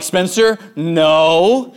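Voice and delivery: put-on calm but firm warning to a toddler; a steady parental no, name then no. Dad stops toddler at drawers.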